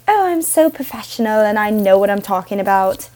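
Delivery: a faint, badly faked British accent; mock posh British, barely put on; terrible British accent. Mocking a polished podcaster in a barely-there British accent. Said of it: "Why did I go British there".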